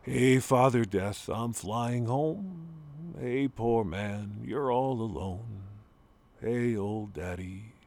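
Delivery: slow, drawn-out recital of a poem; poem reading. Acted. Son reciting Ginsberg's poem to his father, slow poem reading. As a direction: read each line slowly, like a lament. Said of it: "I'm gonna read them, Father Death Blues".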